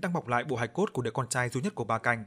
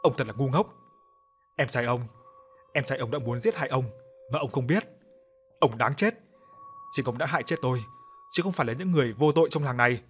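hateful spirit voice. Acted. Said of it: "Nó cười lớn rồi nói giọng căm thù".

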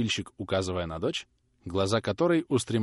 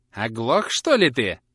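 louder, sharper crone snapping; angry; 2 semitones higher, 7 dB louder, slower than usual. A narrator's reading. Old woman angrily demanding the grinder answer. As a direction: snap at him crossly. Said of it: "спросила старуха сердитым голосом".

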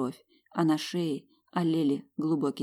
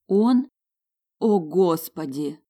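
loud, shocked gasp of realization; horrified dawning; 6 dB louder, slower than usual. Acted.

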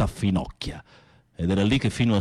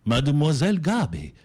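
dreamy, dramatic storytelling over music; film story narration. Acted. Telling a friend the film's plot, dramatic narration. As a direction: paint the scene like a romance novel.

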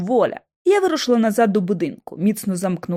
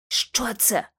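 whisper; 6 dB quieter than usual. Acted. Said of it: "прошепотіла я".

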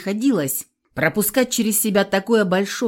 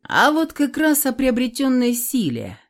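higher, open triumph in voice; triumphant; 7 semitones higher than usual. A narrator's reading. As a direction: savour being right. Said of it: "не скрывая триумфа в голосе".

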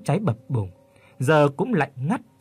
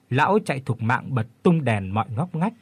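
ordinary delivery

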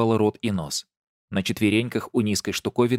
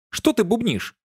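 annoyed shout; 12 semitones higher than usual. A narrator's reading. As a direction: shout it at the mumbler. Gardener shouts at mumbling friend.

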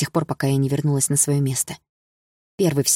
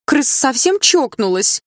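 much higher, louder, slow mocking cry; jeering shout; 10 semitones higher, 5 dB louder, slower than usual. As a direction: taunt her from across the room. Classmates shout together.

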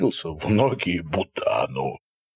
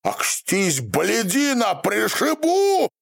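yelling threat; 12 semitones higher, slower than usual. A narrator's reading. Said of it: "вдруг заорал тот".

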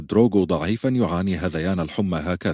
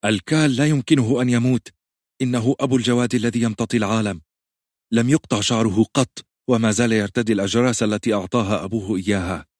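sharp retort; 4 semitones higher than usual. Acted. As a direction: cut her off sharply, refusing to hear it. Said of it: "وقالت بحدة". (ردّ حاد بصوت أعلى وأرفع)

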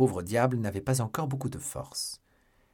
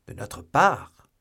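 slow, higher, incredulous echo question; surprised question; 4 semitones higher, 6 dB louder, much slower than usual. A narrator's reading. Three musketeers question d'Artagnan about the gift, surprised. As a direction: stretch it out, rising in mild disbelief. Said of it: "firent les trois mousquetaires".

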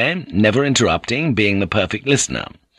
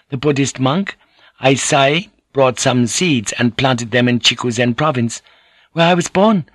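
lightly raised voice, playing at solemnity; mock solemn; 4 semitones higher than usual. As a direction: deliver a mock-grave history lesson. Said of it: "Kiku became solemn".

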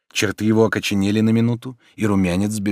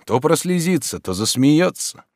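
plain reading voice

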